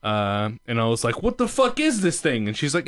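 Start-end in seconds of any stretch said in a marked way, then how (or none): 1.2-2.5 put-on baffled kid. Child self quoted.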